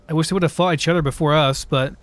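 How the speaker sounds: talking through hiccups; speech broken by hiccups. Real, not acted. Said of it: "Sorry, I'm hiccuping".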